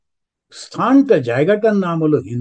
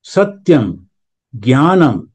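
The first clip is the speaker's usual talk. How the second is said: slow, measured reading of a revered quote; solemn recitation; much slower than usual. Shown as a demonstration. Teacher reciting Tagore's words to the class, slow and solemn. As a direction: let each phrase land slowly, reverently. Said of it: "সেই লেখাতে রবীন্দ্রনাথ বলছেন".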